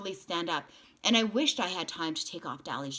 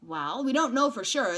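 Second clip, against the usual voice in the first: good-natured grin; 6 semitones higher, 6 dB louder than usual. A narrator's reading. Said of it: "the man said with a good-natured grin".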